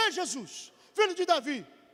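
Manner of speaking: acted, mild, held-back calling out. Retelling a woman who runs after jesus: imitating a woman shouting.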